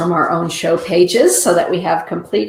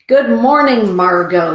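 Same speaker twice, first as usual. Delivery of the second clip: excited greeting; 4 semitones higher, 5 dB louder than usual. Real, not acted. Greeting viewer Margot.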